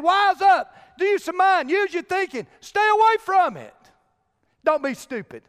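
high-pitched preacher's scolding; emphatic exhortation. Retold or imitated. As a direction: urge them hard, pitched well up. Voices the scripture writer's exhortation.

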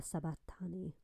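whisper. A narrator's reading. Cry from the cross, breath fading.

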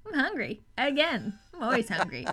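lightly voiced matter-of-fact young croc; a hint of a blunt hungry croc; young crocodile voice. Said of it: "it's very young and matter of fact".

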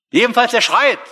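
emphatic. Acted. Building up to God's answer.

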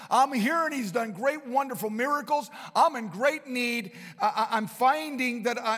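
desperate beggar. Acted. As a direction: push it out like a last chance. Preacher voicing desperate Bartimaeus.

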